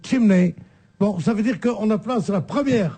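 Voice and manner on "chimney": "chimney" with the stress on "chim"; stress on first syllable. Shown as a demonstration. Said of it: "quand on dit en anglais". (« chimney » accentué sur la première syllabe)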